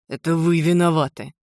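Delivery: angry accusing hiss. Acted. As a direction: hiss the blame at someone. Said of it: "зашипел на меня Джим Лендри". (злобно шипит)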